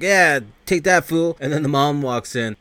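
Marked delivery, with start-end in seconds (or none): 0.0-1.4 higher, louder, slower teasing jeer; a mock gleeful taunt. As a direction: gloat while pulling the trigger. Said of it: "It's like".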